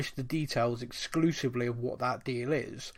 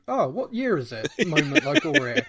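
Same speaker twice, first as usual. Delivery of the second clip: dazed player; 8 semitones higher, 4 dB louder than usual. Retold or imitated.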